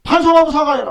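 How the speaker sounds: forceful call to repent and apologize; loud demand. Real, not acted. Demanding an apology from the man in court, loud. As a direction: punch out 반성하고 사과해라 as a loud demand. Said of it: "그래서".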